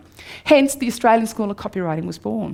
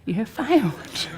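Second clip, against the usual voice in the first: ominous letter voice; 6 dB quieter, slower than usual. Retold or imitated. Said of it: "letter from the dean saying".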